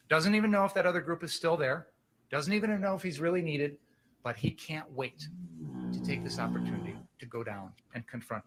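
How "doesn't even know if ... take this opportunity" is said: forceful, indignant courtroom delivery; passionate closing argument. Acted. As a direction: argue it hard to the jury.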